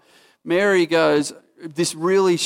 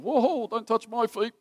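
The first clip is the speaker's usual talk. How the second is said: startled protest; 7 semitones higher, 4 dB quieter than usual. Retold or imitated. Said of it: "there's a bit of".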